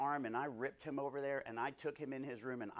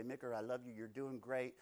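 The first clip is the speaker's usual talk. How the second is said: soft, kind and reassuring; gentle loving correction; 4 dB quieter than usual. Acted. God correcting the preacher lovingly, soft and kind. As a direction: correct with a hand on the shoulder. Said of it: "he really can do it in love".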